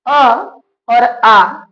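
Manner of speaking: अ and आ sounded out slowly from the throat; vowel demo. Shown as a demonstration. Teacher sounding अ and आ for students, carefully. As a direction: say अ, then the longer आ, clearly from the throat. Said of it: "जरा बोल के इसको देखिए".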